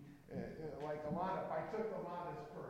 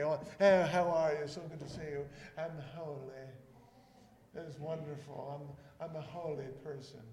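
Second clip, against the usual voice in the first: a light, smug, over-sweet holier-than-thou impression; mock pious voice. Preacher mocking the fake-holy churchgoer, lightly smug and pious. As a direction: lightly put on, self-satisfied piety. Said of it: "That's what they say".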